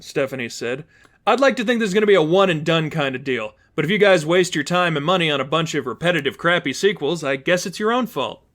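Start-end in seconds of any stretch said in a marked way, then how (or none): 1.3-8.4 fast, breezy smug quip; lightly voiced smug heroine. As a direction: tease the beaten villains. Stephanie mocking villains.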